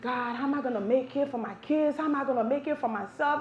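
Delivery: softly imitated tearful prayer; mock crying. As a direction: plead quietly, as if crying. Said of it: "I'm crying my eyes".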